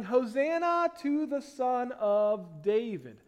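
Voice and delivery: understated shout of praise; mild mock shout. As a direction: draw it out like a restrained crowd cheer. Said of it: "were shouting".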